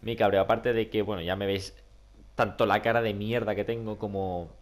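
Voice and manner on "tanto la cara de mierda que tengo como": hoarse, croaky voice from a cold; Donald Duck voice. Real, not acted. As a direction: talk through a heavy cold, duck-like. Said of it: "tengo la voz de Pato Donald ahora mismo".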